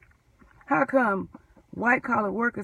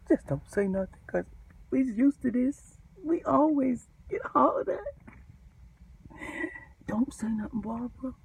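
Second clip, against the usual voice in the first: fearful pleading; 4 dB quieter than usual. Retold or imitated. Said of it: "it's like the runaway slave said".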